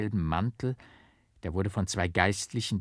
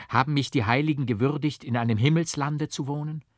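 quick, raised, marvelling voice; rapturous; 6 semitones higher, 4 dB louder than usual. A narrator's reading. Monk marvels to the priest in sheer delight. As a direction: ask it in breathless delight. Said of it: "rief ich voll Entzücken aus".

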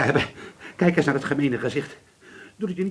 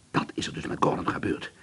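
whisper; 5 dB quieter than usual. Acted. Fearful whispered realisation.

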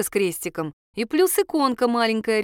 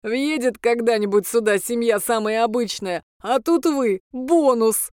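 understated impish amusement; amused demon; 2 semitones higher than usual. A narrator's reading. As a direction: tease like an imp enjoying its own joke. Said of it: "засмеялся бес".

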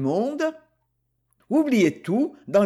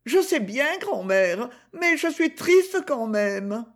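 sad; 5 semitones higher than usual. Acted. Gigi still sad.

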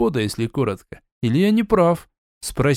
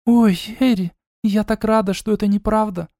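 put-on higher, happy girl's voice; light relieved joy of a young sister; glad sister; 8 semitones higher than usual. A narrator's reading. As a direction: sister Eda's gladness, lightly played.

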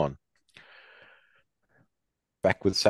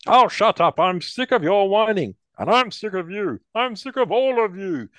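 high, loud furious outburst; angry shout; 14 semitones higher, 5 dB louder than usual. Acted. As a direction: yell it, fed up with them all. Prisoner snaps at the others.

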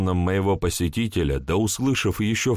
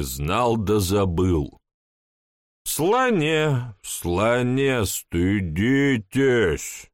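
put-on slow, tipsy scolding drunk; town drunk; 3 semitones higher, much slower than usual. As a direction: chide him drunkenly, slowly. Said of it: "полупьяный голос".

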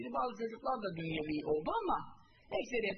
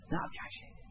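hushed, breathy repeat of the question; a voiceless whisper, as if in his ear. Acted. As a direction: lean in and whisper it to the dying man.

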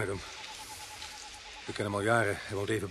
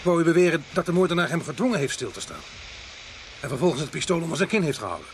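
raised, disbelieving questioning; incredulous challenge; 4 semitones higher than usual. Acted. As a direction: challenge the theory, voice pushed up. Challenges the doctor's murder theory. (ongelovig, met verheven stem)

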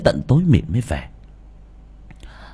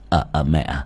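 hasty. Acted. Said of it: "hấp tấp".

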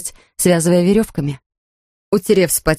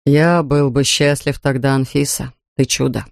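sad tender; 4 semitones lower than usual. Acted. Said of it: "Он грустно улыбнулся".

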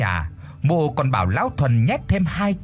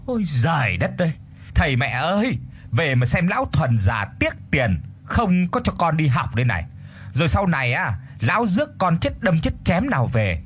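mock wailing; 4 semitones higher than usual. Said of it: "bù lu bù loa lên".

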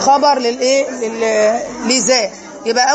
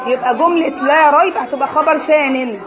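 slow explanation. Shown as a demonstration. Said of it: "teacher explaining slowly".

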